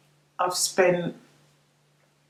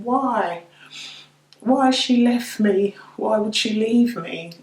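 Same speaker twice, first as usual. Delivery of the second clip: anguished pleading; 4 semitones higher, 4 dB louder than usual. Retold or imitated. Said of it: "I just kept on saying".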